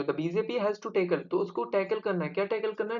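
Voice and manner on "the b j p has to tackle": very slow model read; teacher rereads slowly to break it down; slow chunked reading. Shown as a demonstration. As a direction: say each word slowly and separately. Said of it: "तो ऐसे समझो".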